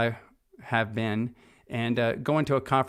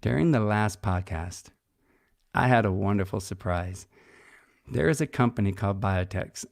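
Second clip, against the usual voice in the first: lightly put-on radio voice, pitched a touch down; measured announcer delivery, slowing toward the sponsor reveal; 2 semitones lower than usual. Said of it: "check this out with my radio voice".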